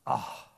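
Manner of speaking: low gasp of recognition; imitated gasp. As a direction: act out a sudden breathy "ah". Mary recognises Jesus's voice.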